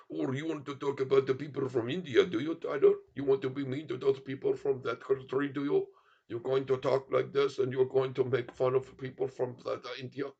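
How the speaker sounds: mock-scolding Indian accent. Streamer scolds Tyler for mocking people, mock Indian accent. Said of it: "India accent is, is tough to do".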